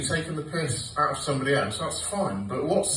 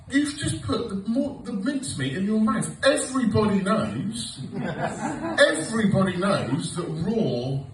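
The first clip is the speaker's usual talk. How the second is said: insistent panic; 6 semitones higher than usual. Retold or imitated. Insisting the mincemeat is poisonous.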